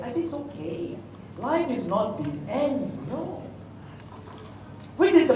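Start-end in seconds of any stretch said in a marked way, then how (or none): 0.2-3.4 consoling. Retold or imitated. Uncle consoling the upset boy.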